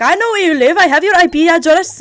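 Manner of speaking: hammed-up stalker warning; mock threat. The scammer threatening the streamer, mock loud menace.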